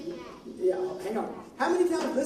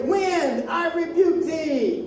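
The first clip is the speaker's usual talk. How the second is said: slow, measured command; commanding rebuke; 3 semitones higher, much slower than usual. Acted. Teacher feeds child Jesus's line to the wind, slow command. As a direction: draw out a firm rebuke for echoing.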